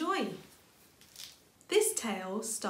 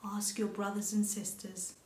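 gentle mother. Acted. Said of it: "gently placing Little Rabbit on the floor".

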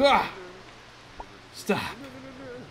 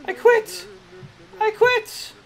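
mock giving up; 9 semitones higher, slower than usual. Real, not acted. Giving up after repeated failure.

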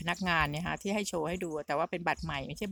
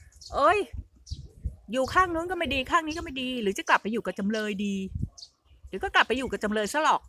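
lightly imitated sarcastic grumble, pitched up; mock sarcasm; 4 semitones higher than usual. Retelling a YouTuber's sulky jibe about switching sides, mildly sarcastic. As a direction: put on a slightly higher, sarcastic retort. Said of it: "เขาประชดประชันนะคะ".

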